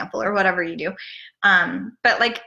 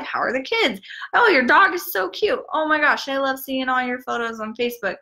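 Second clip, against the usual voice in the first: friendly chat; 4 semitones higher than usual. Retold or imitated. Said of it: "You would say".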